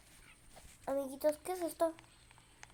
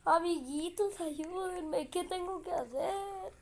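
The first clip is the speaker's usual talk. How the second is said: panicking gamer; 5 semitones higher, slower than usual. Real, not acted. Begging viewers for help.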